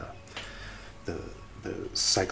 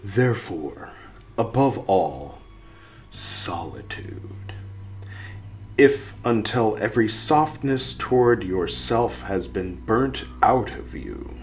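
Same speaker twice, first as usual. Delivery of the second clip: slow solemn quote reading; slower than usual. Acted. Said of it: "putting that voice in quotes".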